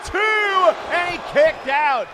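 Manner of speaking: excited live ring commentary; wrestling commentator. Acted. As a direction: call the match blow by blow.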